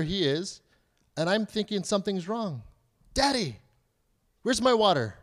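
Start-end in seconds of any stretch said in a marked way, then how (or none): 3.1-5.2 mock child's yell. Nine-year-old calling Dad to fetch water, mock yell. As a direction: imitate a child hollering to Dad for something. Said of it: "He's yelling out "Daddy" across the house".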